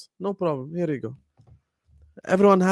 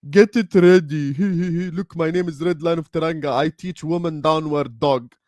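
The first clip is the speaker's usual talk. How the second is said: mocking a yoga teacher; 2 semitones higher than usual. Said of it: "Shut your ass up, you yoga merchant".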